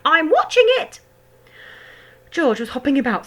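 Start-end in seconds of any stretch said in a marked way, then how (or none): 0.0-1.0 high, loud crone call; shouting grandma. A narrator's reading. Grandma shouting back down to George. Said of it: "the old girl shouted back".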